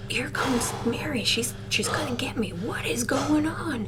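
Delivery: storyteller voicing a scared man; acted panic. Man panicking as ghost approaches.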